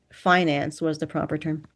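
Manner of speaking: ordinary delivery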